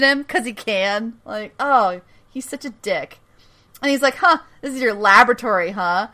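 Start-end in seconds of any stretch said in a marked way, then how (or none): 4.2-6.1 mocking. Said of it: "he's just so mocking of him".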